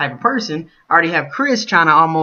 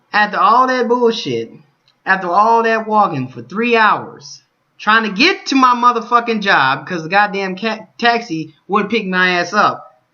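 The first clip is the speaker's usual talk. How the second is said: high, loud, slow bitter outburst; angry rant; 7 semitones higher, 4 dB louder, slower than usual. Real, not acted. Vlogger venting about being fired, angry.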